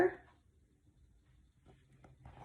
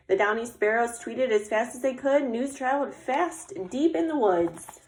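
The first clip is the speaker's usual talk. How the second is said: story refrain; 2 semitones higher than usual. A narrator's reading. Sparrows spreading news through the woods, lilting storytelling. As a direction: read it like a recurring picture-book refrain. Reads picture book aloud.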